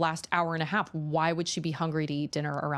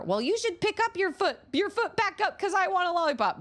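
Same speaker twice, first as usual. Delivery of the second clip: very high, put-on little kid voice; squeaky child arguing back; mimicked bratty daughter; 14 semitones higher than usual. Toddler talks back to mom over a lollipop, mimicked high voice.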